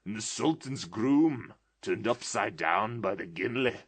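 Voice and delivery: put-on pointing at old heroes with childish glee; excited old man, almost laughing; between laughing and crying. A narrator's reading. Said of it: "extraordinary voice between laughing and crying".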